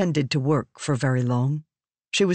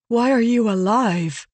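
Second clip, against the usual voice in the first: louder, higher, insistent question; demanding; 7 semitones higher, 4 dB louder than usual. A narrator's reading. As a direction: press her hard for an answer. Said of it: "Navani demanded".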